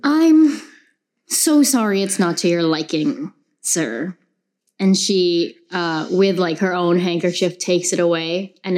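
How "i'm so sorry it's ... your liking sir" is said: bright, sweet apology to a rude client; polite customer service voice. Acted.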